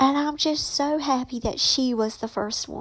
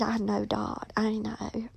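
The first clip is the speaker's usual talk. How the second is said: tender reply; 7 dB quieter than usual. Retold or imitated. Soft reply to aunt.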